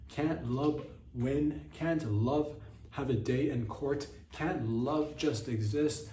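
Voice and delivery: mock plea. Mock pleading for love.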